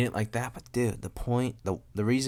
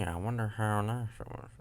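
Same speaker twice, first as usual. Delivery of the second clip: normal talking voice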